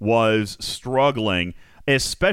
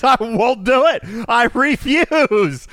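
whiny refusal voice; 12 semitones higher, 6 dB louder, slower than usual. Retold or imitated. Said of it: "Arian says".

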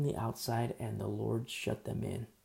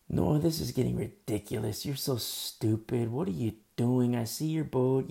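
scornful mockery; 5 dB louder than usual. Mockers scolding Noah.

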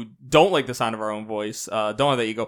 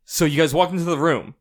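long pauses. Shown as a demonstration. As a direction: pause long mid-sentence. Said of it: "and I'll be like".

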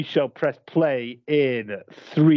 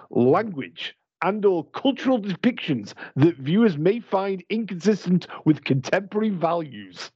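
posh voice. Acted. Host reads the film warning aloud to his friend in a mock posh voice. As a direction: read the warning like a stuffy English announcer. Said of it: "I'm gonna do it in a posh voice".

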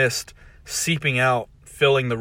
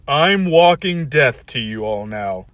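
menacing villain; 2 semitones higher, 5 dB louder, slower than usual. Acted. Villain gloats.

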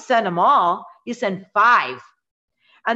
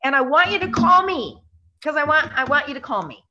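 lightly voiced friendly sales pitch, high; a bright, coaxing call to action; demo phone close; 7 semitones higher than usual. Shown as a demonstration. Agent shows how to end the call, lightly coaxing. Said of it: "and then you say".

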